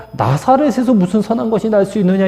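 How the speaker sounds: a mocking proverb about Nazareth; mocking saying. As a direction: scoff at the town as a byword. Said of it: "나사렛을 조롱할 때 쓰는 말이에요".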